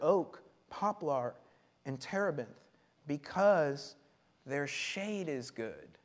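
measured reading with long pauses; scripture reading. Acted. Preacher reads the verse to the congregation, measured scripture reading.

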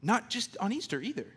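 joyful preacher's climax; rising joyful exhortation. Real, not acted. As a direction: lift them up with joy.

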